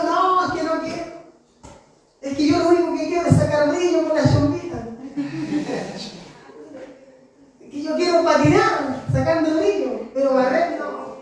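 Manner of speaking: a lightly voiced child whining; whiny child. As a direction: whine like a kid avoiding chores. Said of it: "Y yo".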